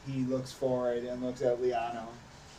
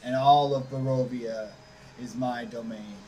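lightly voiced vampire lord. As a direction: announce yourself as an overlord. Strahd introduces himself.

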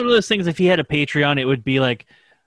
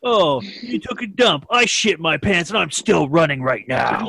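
mock sneering bodybuilder; slower than usual. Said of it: "he'd be like".

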